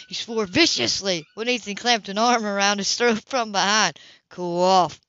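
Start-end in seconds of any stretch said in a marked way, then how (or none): 4.3-5.0 gruff order. Acted. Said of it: "Ethan ordered".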